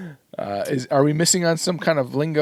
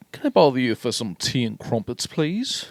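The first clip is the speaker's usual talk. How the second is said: put-on polite British accent. Shown as a demonstration. Co-host showing off on request his best British accent. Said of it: "My best British accent?".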